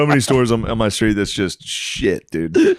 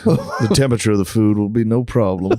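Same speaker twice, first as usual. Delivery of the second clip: mock grand proclamation. Drunk self in mock grand speech.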